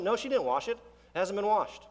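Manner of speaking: put-on a boy swearing it's unwashed; insistent kid. Son insisting.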